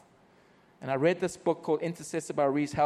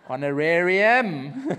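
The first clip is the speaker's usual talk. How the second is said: a slow, laughing aside on one word; 4 dB louder, slower than usual. Real, not acted. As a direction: savour the word with a chuckle. Joking about getting paid.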